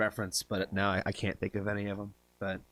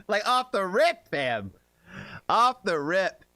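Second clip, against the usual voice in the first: excited; 7 semitones higher, 5 dB louder, slower than usual. Real, not acted. Amazed at instant guess.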